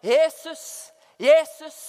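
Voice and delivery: gjenskapt bønnerop, høyt og lyst; rop til Jesus. Retold or imitated. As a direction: rop navnet av full kraft. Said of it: "Jeg ropte". (ropende, inntrengende)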